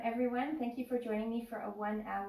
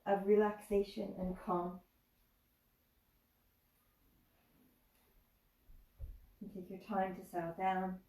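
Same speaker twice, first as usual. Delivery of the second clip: guided meditation. Acted. Leads relaxation in yoga.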